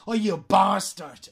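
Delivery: slow "Oh, you bastard" with a popped B; strong B. Shown as a demonstration. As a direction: lean into the B of "bastard". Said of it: "Fijaos cómo pronuncia la B". ("bastard" marcando la B, alargado)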